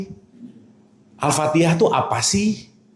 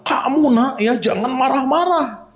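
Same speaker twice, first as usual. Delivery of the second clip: higher, mock-angry scolding of a child; scolding while angry; 7 semitones higher than usual. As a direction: play a mother mildly snapping at her kid. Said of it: "Ngomongnya sambil marah-marah". (omelan ibu yang pura-pura marah)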